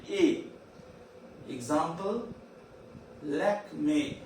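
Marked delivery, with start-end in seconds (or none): 0.1-0.4 "A" as closed French é; bright teacher's demo of "A" as "ay"; full-smile A. Shown as a demonstration. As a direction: say "A" as "ay" through a wide smile. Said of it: "that is full smile".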